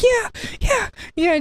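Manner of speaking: high, giddy imitated yeahs; excited. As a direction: squeal them out like a pup seeing treats. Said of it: "just going all over saying".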